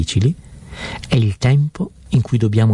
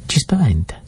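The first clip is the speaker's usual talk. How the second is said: whisper; 3 semitones higher than usual. Acted. Sermon, fear evoked by whisper.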